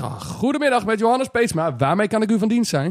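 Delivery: customer service voice. Shown as a demonstration. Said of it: "Nee, ik zeg".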